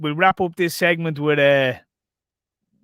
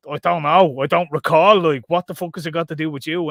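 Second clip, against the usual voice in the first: mock defiant retort; 5 dB louder than usual. Retelling guy answering cops.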